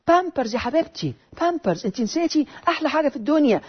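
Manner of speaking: mock advert endearment; helpful friend. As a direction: recommend it like a friend in a commercial, lightly voiced. Voices friend recommending diapers in ad.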